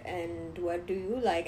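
lightly voiced old man, very slow; slow imitation of an older suitor; old brown guy. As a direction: drag out the question like an awkward elder. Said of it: "him being an old brown guy".

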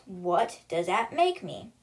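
slow, measured repeat of the question; pressing riddle. Retold or imitated. The boy presses Avery for an answer, slow and deliberate. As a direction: space out the words of the riddle.

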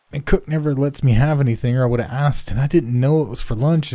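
put-on a scared boy blurting excuses all in one rush; terrified boy pleading. A narrator's reading. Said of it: "speaking the sheer momentum of terror".

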